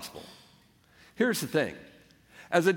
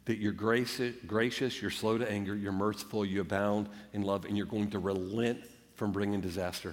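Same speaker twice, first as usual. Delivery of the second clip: 1 hushed reflection; 7 semitones lower, 7 dB quieter than usual. Real, not acted. Preacher dropping into hushed reflection.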